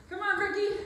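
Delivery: loud high encouragement; cheering. Real, not acted. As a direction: cheer them on loudly. Cheering on during high knees.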